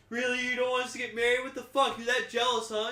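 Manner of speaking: high, indignant mock reply. Voicing wife's indignant reply.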